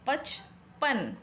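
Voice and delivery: पचपन said very slowly and clearly; slow correct reading. Shown as a demonstration. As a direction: stretch पचपन out for the children. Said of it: "ये वाला".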